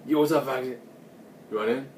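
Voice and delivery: lightly acted breezy greeting at the door; R-Truth. Wrestler greets Foxy at the door, lightly imitated hearty hello.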